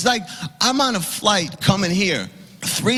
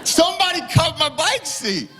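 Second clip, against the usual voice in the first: higher, laughing disbelief; laughing outrage; 7 semitones higher than usual. Real, not acted.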